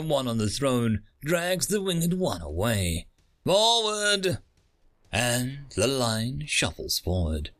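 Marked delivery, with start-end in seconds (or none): 3.4-4.4 barked command. A narrator's reading. Guard orders the line forward.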